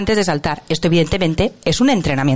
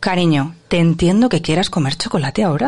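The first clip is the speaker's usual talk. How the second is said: validating parent; 2 semitones lower than usual. Acted. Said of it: "primero es validar".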